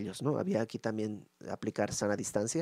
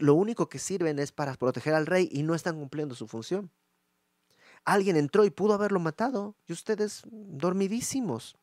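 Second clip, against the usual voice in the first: mocking scolding. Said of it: "lo que le está diciendo David".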